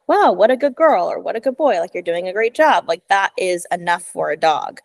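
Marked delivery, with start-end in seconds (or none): 0.1-2.9 praise voice. Shown as a demonstration. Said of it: "your voice is just like".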